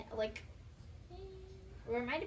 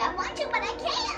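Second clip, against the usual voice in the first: voicing the cat; 10 semitones higher, 6 dB louder than usual. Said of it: "It's like".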